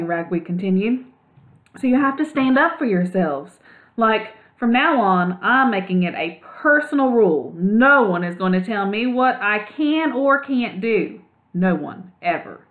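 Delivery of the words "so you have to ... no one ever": a hint of a slangy young mouse pitched up; cool surfer mouse. Ragweed urging the other mice to stand up.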